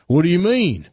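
a hint of clueless country boy; dim hillbilly farm boy. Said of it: "numbskull farm boys".

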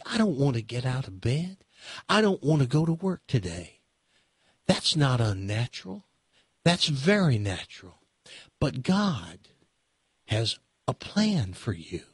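mock a TV preacher gently, with a touch of southern lilt; a hint of a soothing televangelist; Joel Osteen impression. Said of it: "That's how, that's how Joel Osteen talks".

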